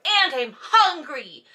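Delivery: slow mock whine; needy whine. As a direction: drag it out sulkily. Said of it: "then he's like".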